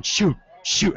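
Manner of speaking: high-pitched mock on-air "shoot"; imitated exclamation. Imitating partner's on-air reaction.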